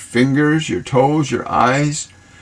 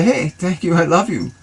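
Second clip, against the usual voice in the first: loving affirmation; 5 semitones higher than usual. Shown as a demonstration.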